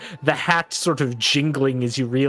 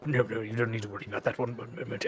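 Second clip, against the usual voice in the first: nervous hush; 3 semitones lower, 10 dB quieter, much faster than usual. Acted. Nervous NPC hurrying.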